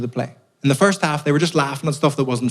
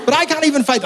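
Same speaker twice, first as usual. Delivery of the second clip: high, squeaked admission; squeaky self-mocking. Real, not acted. Comedian admits to the audience, self-mocking and squeaky. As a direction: pipe it up like a wimp.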